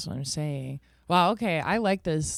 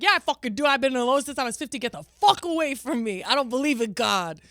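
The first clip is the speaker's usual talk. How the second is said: mock angry retort; 7 semitones higher than usual. S1 retelling telling off Scientology recruiters, mock angry. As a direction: tell them off like a fed-up teen. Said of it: "I was like".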